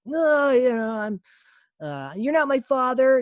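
put-on high kid's toy voice, dramatic; a kid shouting a movie line, way up high; kid playing Luke. Kid playing with toys, voicing Luke Skywalker loud and high. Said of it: "playing with your toys and you're doing this character".

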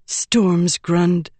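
plain reading voice

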